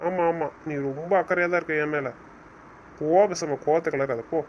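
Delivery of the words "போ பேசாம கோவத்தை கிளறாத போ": angry dismissal. Acted. Husband snaps at wife in quarrel.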